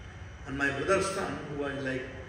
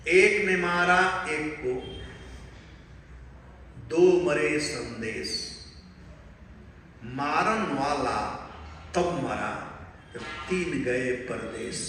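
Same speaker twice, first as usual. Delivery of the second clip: riddle recitation; 2 semitones lower, much faster than usual. Shown as a demonstration. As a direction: rattle the riddle off quickly like a rhyme. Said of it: "I will tell one thing to you all".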